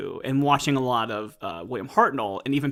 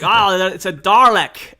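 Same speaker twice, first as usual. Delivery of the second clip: put-on loud, higher, slow London accent Dalek; 7 semitones higher, 10 dB louder, slower than usual. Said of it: "using a fake London accent".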